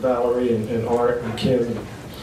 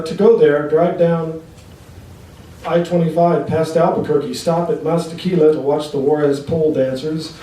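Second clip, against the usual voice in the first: poetry reading. Acted. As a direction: read it out as an incantatory poem, stressing the images. Reads own poem to audience.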